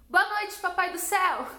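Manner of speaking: put-on a light child's voice calling up to heaven; sweet little girl. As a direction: call out sweetly like a small child. Child saying goodnight to the sky.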